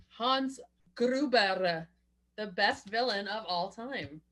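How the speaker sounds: slow laughing praise. Real, not acted. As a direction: drag it out through a laugh.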